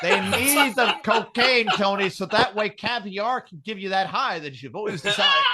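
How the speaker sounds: talking through laughter; laughing. Real, not acted. Telling Tony about fish cocaine, laughing through it. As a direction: push the joke out while cracking up.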